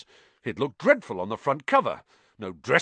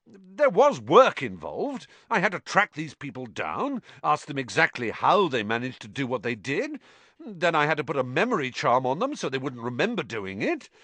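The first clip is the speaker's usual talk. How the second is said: impatient; 6 semitones higher, 3 dB louder than usual. Acted. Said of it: "shaking his head impatiently".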